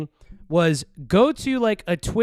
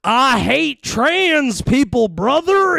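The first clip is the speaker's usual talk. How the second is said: much higher, louder, slow mock redneck bro; redneck parody; 10 semitones higher, 4 dB louder, much slower than usual. Streamer mocking leftists' redneck parody, loud mock redneck drawl. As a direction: ham up a dumb redneck, stretched and loud. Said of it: "a parody of redneck guy".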